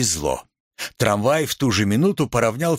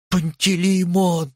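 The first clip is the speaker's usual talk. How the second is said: fading plea; 7 semitones higher than usual. A narrator's reading. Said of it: "угасая, попросил Коротков".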